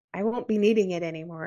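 put-on deliberate American accent. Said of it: "in my American accent".

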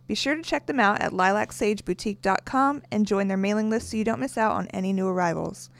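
sponsor read in long runs. Real, not acted. Co-host reading boutique sponsor copy to listeners, ad read.

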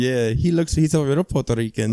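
a hint of doting abuela; proud abuela. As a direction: imitate a grandma proudly showing off. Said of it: "my abuela would be always so proud".

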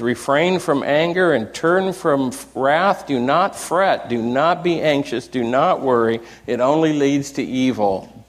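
scripture reading. Shown as a demonstration. Reads Psalm thirty-seven aloud.

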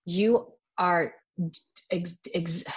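calm, measured reassurance; gentle voice. Retold or imitated. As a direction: speak as a gentle inner guide. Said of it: "a very gentle voice".

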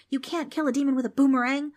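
loud, high-pitched correction; exasperated yell. A narrator's reading. Darren scolds Darby, yelling. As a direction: snap at a friend's silly idea. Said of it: "Darren yelled".

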